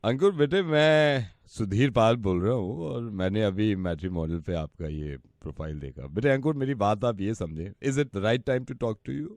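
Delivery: slow, measured fatherly phone manner; earnest prospective father-in-law. Pretend. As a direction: play a polite father sounding out a match. Plays a bride's father on call.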